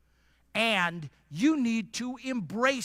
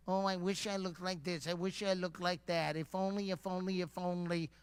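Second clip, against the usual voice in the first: wistful complaining; 4 semitones lower, 10 dB quieter than usual. Retold or imitated. Mocking people who complain.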